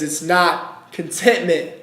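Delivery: low, soft and hushed, God answering gently; God's quiet answer. Acted. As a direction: speak it low and quiet, a calm divine reply.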